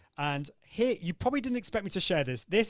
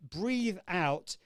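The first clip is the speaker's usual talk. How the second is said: slow breathy demo; slower than usual. Shown as a demonstration. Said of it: "breathe out to these different sounds".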